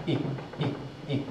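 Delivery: "I" as a quick, soft ih; short i sound. Shown as a demonstration. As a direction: say each "I" brief, like city. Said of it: "Short sound".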